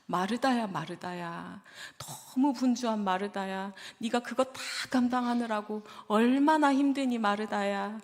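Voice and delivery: gentle, sympathetic calling of her name; tender comfort. Retold or imitated. Pastor voicing Jesus tenderly comforting the weary Martha. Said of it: "이렇게 말씀하셨을 거예요".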